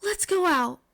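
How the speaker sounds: put-on shy girl finally declaring her feelings; firm declaration. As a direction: declare it boldly. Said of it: "voice finally steady".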